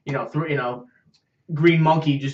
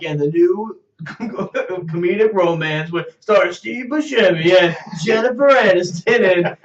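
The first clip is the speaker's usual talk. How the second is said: slow, hammed-up trailer voice breaking into laughter; mock trailer announcer; slower than usual. Announcing a Buscemi and Aniston romance, mock trailer voice.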